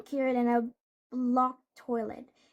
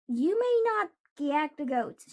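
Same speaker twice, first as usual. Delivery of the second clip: raised voice forbidding the goats' gagging; a lightly shouted stern order; mild shout; 3 semitones higher, 4 dB louder than usual. Acted. Miss Fixit scolding the monster, mild mock shout. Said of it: "shouted Miss Fixit".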